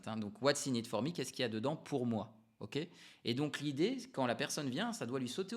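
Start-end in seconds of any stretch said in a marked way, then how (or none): 0.4-1.1 louder English with a French accent; punchy English line in a real French accent. Real, not acted. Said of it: "French accent".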